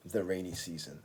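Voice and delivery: the rainy season said clearly as a model; model pronunciation. Shown as a demonstration. Teacher modelling the phrase for repetition, clear model read. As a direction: say the rainy season carefully for students to copy. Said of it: "please listen and watch here and repeat after me".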